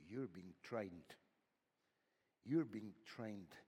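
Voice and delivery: slow, weighted words; slow emphatic repeat. Acted. Preacher assures the suffering listeners, slow and weighted. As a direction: press it in gently. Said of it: "deliberate repetition".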